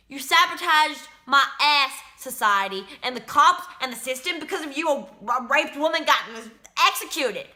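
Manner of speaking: heated, forceful blaming; real bitter accusation. Real, not acted. Prisoner accusing society and the system, angry. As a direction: drive the accusation home phrase by phrase.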